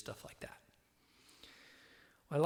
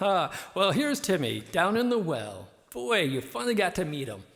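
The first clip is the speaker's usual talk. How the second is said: high, loud announcing shout; shouting far away; 6 semitones higher, 11 dB louder than usual. Pretend. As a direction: call it out across a distance. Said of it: "shout at each other from far away".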